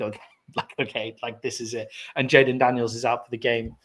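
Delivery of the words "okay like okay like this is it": quiet, hushed thinking aloud; imitated inner thought. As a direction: mutter the thought to yourself, softer. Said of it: "and then you think".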